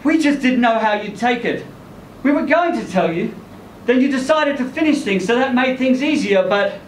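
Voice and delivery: explain, then trail off; Lynn explaining. Acted. Lynn explains, narrator voicing her.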